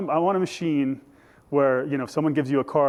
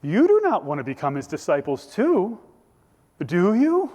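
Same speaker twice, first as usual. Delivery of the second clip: mock question with a higher, louder tag ending; sarcastic; 4 semitones higher, 3 dB louder than usual. Healed man needling the Pharisees about discipleship, sarcastic. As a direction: needle them, lifting the final question. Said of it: "my love language is sarcasm".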